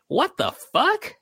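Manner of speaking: high, slow mock outrage; mock Cena outrage. Mock Cena reacting to being an afterthought. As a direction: squeak it out as a stunned Cena. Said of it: "Cena's gonna be like".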